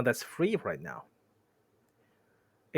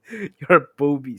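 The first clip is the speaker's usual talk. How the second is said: loud insult near normal pitch; milder troll insult; 8 dB louder than usual. Acted. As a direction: toss off the insult loudly, less hammed-up. Retake of insult after laughing.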